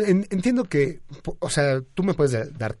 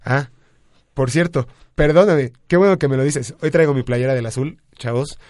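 excited; 2 semitones higher, 6 dB louder than usual. Real, not acted. Showing off his team shirt.

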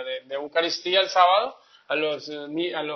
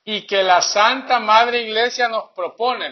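reading the catechism; 3 semitones higher, 4 dB louder, slower than usual. Acted.

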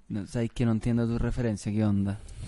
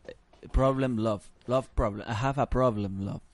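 put-on sorrow; 2 semitones lower, 3 dB quieter, slower than usual. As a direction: stumble dolefully through a heartbroken confession. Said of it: "Porque es parte de la pena". (pena fingida, grave y titubeante)

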